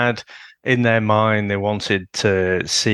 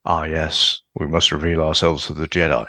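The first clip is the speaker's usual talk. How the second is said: lower, fast, posh stage actor delivery; Darth Maul thespian voice; 5 semitones lower than usual. Retold or imitated. Fan mocking the villain's calm return, posh thespian. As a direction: recite it like a Shakespeare in the Park villain. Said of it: "his thespian voice back".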